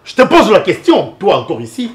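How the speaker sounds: high, loud confrontational question; angry demand. Acted. Man confronting an unwelcome visitor, angry demand.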